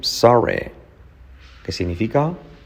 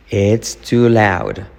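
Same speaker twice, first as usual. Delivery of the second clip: slow model take. Shown as a demonstration. Teacher models phrase slowly.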